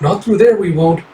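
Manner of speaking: put-on the high girlish take, not the cat's voice; fox-girl voice. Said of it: "sorry, the cat goes".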